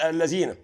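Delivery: الذين said lezina as the mistake; الذين, the wrong plural form; wrong reading. Shown as a demonstration. Teacher warns viewers not to say الذين, lezina. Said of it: "اوعى تغلط وتقول".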